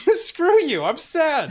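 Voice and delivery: high whiny fake pout; mock sulking. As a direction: whine it, half laughing.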